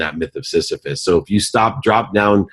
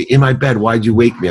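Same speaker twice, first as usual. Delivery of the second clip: annoyed daughter; 4 semitones higher than usual. Retold or imitated. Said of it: "And she'd say".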